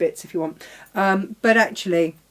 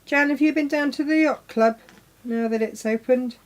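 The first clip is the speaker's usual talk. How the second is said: calling out; 5 semitones higher than usual. Real, not acted. Calling out to Jan.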